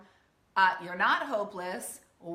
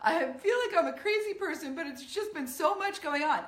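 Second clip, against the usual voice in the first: high, fast, half-laughing overwhelmed babble; a light take on a woman coming apart; breaking down; 7 semitones higher than usual. Retold or imitated. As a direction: play someone near tears, laughing it off high and quick. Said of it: "Or you break down and just start crying. You're like".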